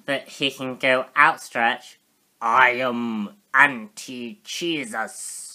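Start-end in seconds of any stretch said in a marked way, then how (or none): 2.4-5.4 megalomaniac rant. Pretend. Toy figure villain voice joke.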